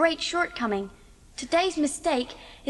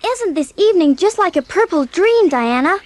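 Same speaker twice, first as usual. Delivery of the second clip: dreamy excitement; 3 semitones higher, 7 dB louder than usual. Acted. Anne gushing to Diana at sunset.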